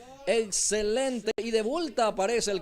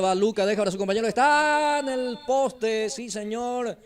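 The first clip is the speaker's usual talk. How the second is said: excited play-by-play; 3 semitones higher than usual. Real, not acted. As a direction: race the play then lift at the post. Fast attack hits the post.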